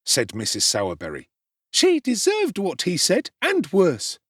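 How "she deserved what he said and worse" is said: very high, loud outraged matron; shrill scolding. A narrator's reading. Mrs Sowerberry berating Oliver, high outraged scolding. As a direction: spit out the insult. Woman insulting boy's mother.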